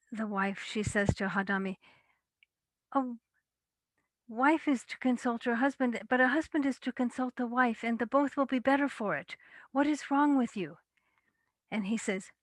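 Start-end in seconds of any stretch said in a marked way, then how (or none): 2.9-9.4 raised, higher scolding voice; wife scolding. A narrator's reading. Wife scolds Hadami for treating Kajipa badly, raised scolding voice. 9.7-10.8 high, loud indignant demand; wife's indignant question. A narrator's reading. Wife confronts her husband Hadami, high loud indignant challenge.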